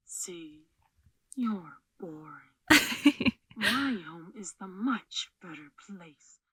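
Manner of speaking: very soft, far below speaking level; hushed take. Acted. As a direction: say the taunt very quietly. Very soft outtake repeat of line.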